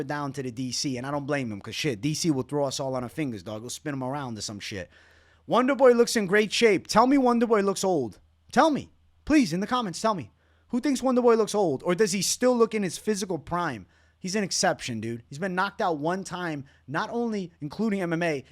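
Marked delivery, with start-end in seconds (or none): 5.5-13.4 loud and high, daring the comments; hyped challenge. Real, not acted. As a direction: call out the viewers, fired up. Challenging viewers to disagree.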